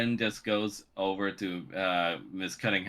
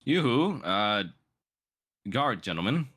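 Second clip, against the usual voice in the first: high, sing-song call for attention; 4 semitones higher than usual. Acted. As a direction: call the guards like a fussy noble. GM voices a noble calling out.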